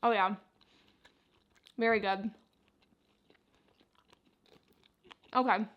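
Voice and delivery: talking with mouth full; chewing while speaking; messy loud eating. Real, not acted. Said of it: "I might be talking with my mouth full".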